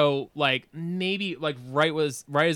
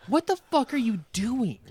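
retold scolding; 6 semitones higher than usual.

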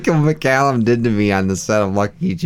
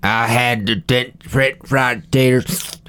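Sling Blade impression; slower than usual. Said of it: "done for Sling Blade".

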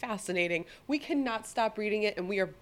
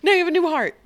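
whisper; 8 semitones higher, 10 dB louder, much faster than usual. Pretend. Joking about fast surgery.

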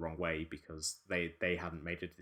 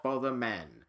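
slow, higher, stilted proclamation; awkward Caesar speech; 6 semitones higher, 5 dB louder, slower than usual. Acted. Caesar addressing the rebel apes at the climax, awkward proclamation. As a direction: declaim it slowly and awkwardly, louder and higher. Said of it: "very awkwardly just says".

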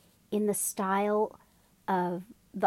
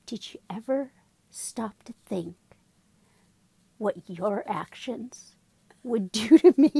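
mock serious mini wheat. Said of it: "he goes".

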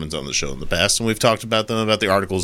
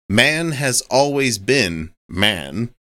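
very slow, each word laid down; slow emphatic quote; much slower than usual. Retold or imitated. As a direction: spell out the quote slowly. Quotes church president's claim.

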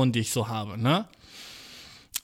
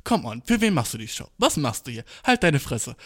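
inner voice; 5 semitones lower than usual. Retold or imitated. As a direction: scold yourself under your breath. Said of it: "eine Stimme in meinem Kopf".

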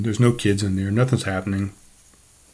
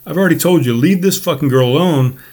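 raised, higher voice ordering him away; telling him off; 3 semitones higher, 4 dB louder than usual. Retold or imitated. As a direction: snap him back to his seat, loud. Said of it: "And I said".

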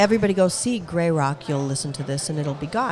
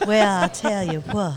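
mock Southern drawl; 5 dB louder than usual. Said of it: "you're Southern".

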